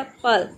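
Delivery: पल said alone as the second syllable of एप्पल; just the syllable पल, separated from एप; isolated syllable. Shown as a demonstration. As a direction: set पल apart as one beat. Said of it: "और दूसरा".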